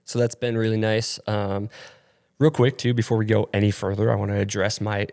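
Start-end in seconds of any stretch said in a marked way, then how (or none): 2.4-5.1 stuffy, nasal voice from allergies. Real, not acted. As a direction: talk through a blocked nose. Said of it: "my incredibly nasally voice".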